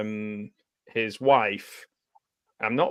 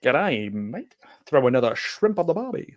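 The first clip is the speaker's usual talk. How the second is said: mock Aussie accent with swooping pitch; hammed-up tourist Australian; Jim Carrey. Imitating a film gag about Austria, put-on Aussie accent. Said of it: "impression of, uh, Jim Carrey".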